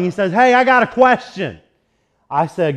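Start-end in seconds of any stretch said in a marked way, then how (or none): 0.3-1.6 retold yelling. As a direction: shout it to someone far off. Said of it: "And he starts yelling".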